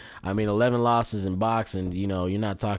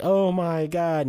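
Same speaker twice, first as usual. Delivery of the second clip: slow, high mock commentator scream; Joe Rogan impression; 10 semitones higher, 5 dB louder, much slower than usual. Mocking the commentator's call, slow high-pitched mock scream. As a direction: stretch it out like an overexcited commentator. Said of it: "you hear Joe Rogan screaming with his high-pitched".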